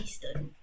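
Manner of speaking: Aston with a plain "s"; tentative Aston pronunciation. Shown as a demonstration. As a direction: try "Aston" as "ESS-tonne". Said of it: "ça dit comme ça".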